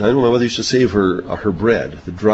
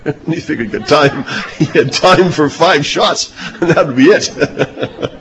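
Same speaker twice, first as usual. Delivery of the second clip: laughing; 3 semitones higher than usual. Real, not acted. Joking about David's five rocks.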